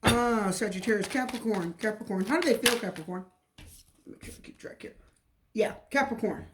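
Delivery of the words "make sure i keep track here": whispered aside to herself. Real, not acted. Reader keeping track of cards, whispering. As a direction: breathe it under the voice. Muttering note to self.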